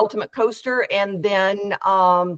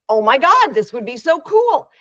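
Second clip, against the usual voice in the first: retold with a rush of excitement, louder; excited quote; 3 semitones higher, 5 dB louder than usual. Speaker retelling the inventor's reaction, excited. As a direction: imitate the inventor's thrilled gush. Inventor thrilled by NFL idea.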